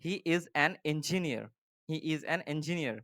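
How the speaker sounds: He is an engineer read word by word, very slowly; slow dictation. Shown as a demonstration. Teacher dictating the example sentence slowly to students. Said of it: "next কি আছে".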